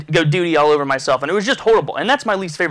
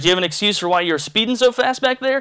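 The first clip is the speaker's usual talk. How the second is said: lightly imitated smirking cop, pitched up; smirking police officer; 6 semitones higher than usual. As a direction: ask as an officer who half knows the punchline. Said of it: "Kinda smirking".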